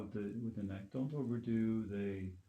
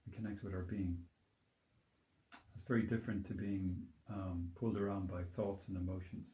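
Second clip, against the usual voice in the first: calm grounding exercise. Acted. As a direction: gently lead them back to their being. Leads a grounding meditation.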